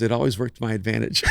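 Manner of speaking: said through a laugh; laughing reply. Retold or imitated. Mom answers her son, laughing at her own cleverness. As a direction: let the laugh break into mom's answer. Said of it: "She goes".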